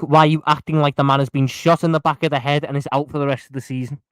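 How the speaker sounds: loud, exasperated shouting; real shouting. Real, not acted. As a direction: shout your objection over them. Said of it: "Can you stop screaming?".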